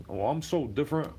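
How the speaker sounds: high smug put-on voice; mocking braggart. Mocking people who brag about being different, high and smug. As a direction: sneer it like a show-off. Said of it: "always go around saying it".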